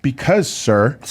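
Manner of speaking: slow, spelled-out official explanation; imitated airport officer. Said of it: "And the lady says".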